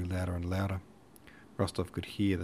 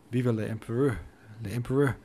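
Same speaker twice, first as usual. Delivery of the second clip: distant cheering; 2 semitones higher, 3 dB louder than usual. Acted. Distant army shouting.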